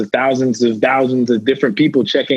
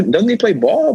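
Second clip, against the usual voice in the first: quoting people; 10 semitones higher than usual. Retold or imitated. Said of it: "People be like".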